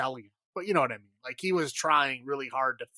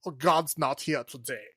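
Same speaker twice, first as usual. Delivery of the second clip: put-on German accent. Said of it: "very German".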